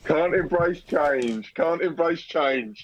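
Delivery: slow, drawn-out teasing refrain; mock taunting. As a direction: needle them with a slow jeer. Teasing the offended boomer co-host.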